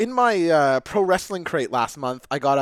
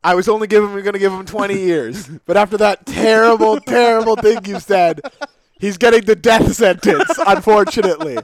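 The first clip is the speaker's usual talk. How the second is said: mock solemn judge; 3 semitones higher, 5 dB louder than usual. Judge delivers sentence.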